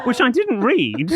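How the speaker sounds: high, slow, laughing. Real, not acted. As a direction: talk through giggles. Laughing while speaking.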